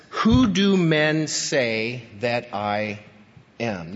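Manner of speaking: slow, earnest and sincere asking; sincere question. Shown as a demonstration. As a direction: ask it genuinely, not proudly. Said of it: "It's a genuine, sincere, important question".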